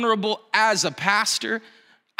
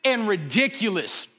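higher, slow, fed-up whine; exasperated complaint; 4 semitones higher, slower than usual. Retold or imitated. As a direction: drag out the irritation at the doorman. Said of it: "I low-key made a scene".

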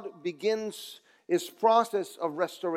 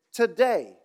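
today given a slight extra lift; today, lightly emphasised; stress on today; 3 semitones higher, 3 dB louder than usual. Shown as a demonstration. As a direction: lean on today a little. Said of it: "I want to emphasize the word".

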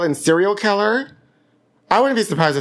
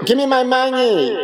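strike yell; 9 semitones higher than usual. Pretend. Actor screaming for pay at the strike. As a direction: shout it like a picket line.

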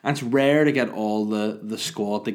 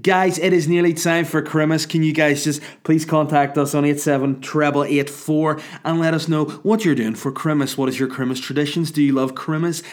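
loud, higher, overly chirpy DJ patter; mock radio DJ voice, louder and higher; annoying radio DJ; 4 semitones higher, 4 dB louder than usual. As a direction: sell it like a cheesy breakfast-show host. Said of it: "really annoying radio D J would say that".

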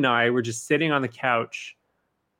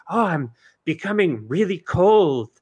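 whiny victim voice; 3 semitones higher than usual. Retold or imitated. Voicing the student in the movie.

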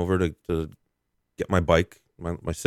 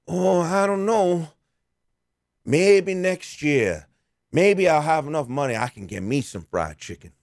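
much higher, very slow put-on beggar; hammed-up beggar hinting at chicken; 6 semitones higher, slower than usual. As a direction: sigh it out slowly, wistful. Beggar voiced in retold story.

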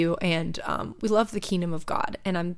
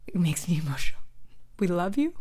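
tearful; faster than usual. Real, not acted. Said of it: "I don't know why I'm crying".

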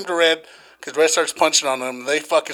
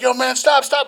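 higher-pitched mock bystander; urgent plea, imitated; 8 semitones higher than usual. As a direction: quote someone breaking up a fight. Quoting bystanders breaking up fight.

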